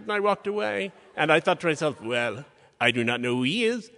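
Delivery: imitated French accent, chatty storytelling. Curator telling a colleague about losing her necklace, imitated French accent. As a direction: play the French curator recounting a party mishap. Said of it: "in her amazing French accent".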